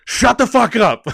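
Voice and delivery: high, loud villain outburst; imitated furious shout. Streamer re-enacting the clip for viewers, imitated enraged yell. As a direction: mimic the villain exploding down the phone. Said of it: "then he stops and then goes".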